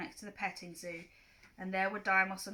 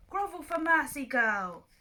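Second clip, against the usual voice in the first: louder commanding demand; threatening god; 5 semitones higher, 6 dB louder than usual. Acted. Fake Ares orders Clarice to grovel, loud command. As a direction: order her down.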